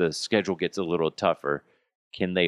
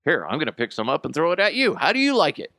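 high-pitched mock telling-off of a kid; hammed-up exasperated threat; mock scolding; 8 semitones higher, faster than usual. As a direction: scold in comic outrage, rising at the end. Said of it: "Be like".

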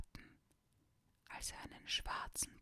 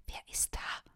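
trying to sound stern; 6 dB louder than usual. Acted. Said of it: "streng und bestimmt klingen zu lassen".

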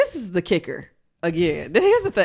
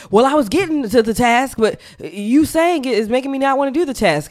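sulky student; 5 semitones higher than usual. Retold or imitated. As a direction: whine like a kid dodging work. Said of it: "And you're like".

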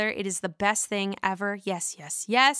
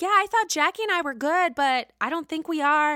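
a lightly voiced higher Jennifer; a hint of hurt Jennifer; mock Jennifer; 6 semitones higher, 3 dB louder than usual. Jennifer complaining to Teresa about the girls, lightly voiced and higher. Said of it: "And she's like".

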